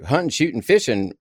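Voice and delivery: "Hunting, shooting, fishing" all ending in -in'; dropped G endings. Shown as a demonstration. Host showing landed gentry's G-dropping on "Hunting, shooting, fishing", n endings. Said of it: "Take the dropping of the G".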